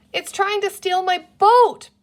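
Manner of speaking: put-on high, loud outraged child's cry. A narrator's reading. Boy yells at creature stealing his boat, outraged. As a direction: yell it like your boat's being stolen.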